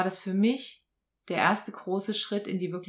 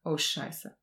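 dismayed; 4 semitones lower, 6 dB quieter than usual. Retold or imitated. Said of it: "Und ich so".

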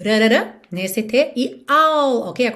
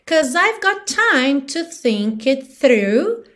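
slow, stretched lyric; song rhythm; 2 semitones higher, slower than usual. Shown as a demonstration. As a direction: recite slowly to the song's beat. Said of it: "te dando no ritmo da música".

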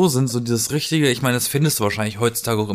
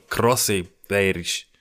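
Franconian imitation; 3 semitones lower, much slower than usual.

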